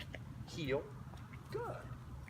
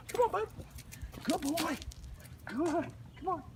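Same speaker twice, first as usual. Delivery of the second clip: high, light praise and call; 11 semitones higher than usual. Real, not acted. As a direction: cheer the dog on lightly. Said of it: "I keep my voice light like this".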